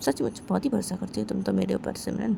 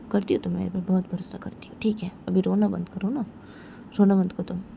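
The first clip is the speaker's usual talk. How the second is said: whispered reassurance to a crying friend. Acted. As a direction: hush her gently as she cries. Comforting crying friend softly.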